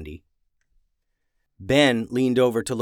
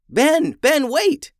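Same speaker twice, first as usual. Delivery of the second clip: high, loud urgent call; shout; 7 dB louder, slower than usual. A narrator's reading. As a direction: yell to stop him. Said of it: "Emmeline shouted as she approached".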